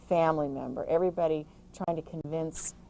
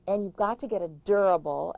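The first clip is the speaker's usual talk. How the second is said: durable leaned on, a touch louder; stress on durable; 4 dB louder than usual. Shown as a demonstration. Urging caregivers, stressing the word durable. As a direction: press the word durable home. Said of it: "I stress the word durable".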